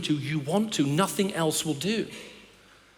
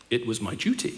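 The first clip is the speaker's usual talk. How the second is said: dutiful answer; 7 semitones lower than usual. Retold or imitated. Husband's flat dutiful answer.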